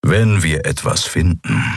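growly character voice; grumbling. Acted. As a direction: grumble it like a menacing brute. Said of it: "brummte Keru".

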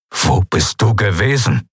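father's voice demanding an answer; barely contained agitation. A narrator's reading. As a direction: press the question with turmoil breaking through. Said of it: "unfähig, seinen inneren Aufruhr zu bändigen". (aufgewühlt und fordernd)

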